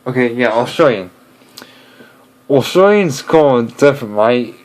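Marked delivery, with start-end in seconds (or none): 0.5-1.1 "Australian" with an Aussie twang; imitated Australian pronunciation; Australian accent. Shown as a demonstration. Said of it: "I can do Australian pretty good". 2.5-4.5 put-on Aussie accent; imitated Australian accent, casual. Shown as a demonstration. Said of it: "I can do Australian pretty good".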